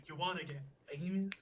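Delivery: hushed, creepy whisper of the bot line; whispered scam bot. Pretend. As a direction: breathe it like a sleazy secret offer. Repeats spam bot line.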